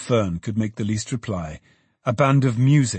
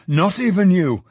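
jolly man echoing himself a little less loudly; jolly repeat, a bit less loud; 7 semitones higher, 4 dB louder than usual. A narrator's reading. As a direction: repeat it merrily, easing off. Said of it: "a generous and jolly voice".

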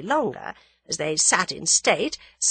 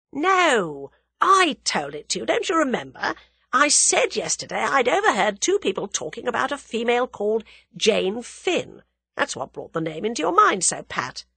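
lightly voiced insistent young man, raised pitch; young man character, insistent; 6 semitones higher, 4 dB louder than usual. Young man reminding his friend what he said, insistent. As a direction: press the reminder on her, emphatically.

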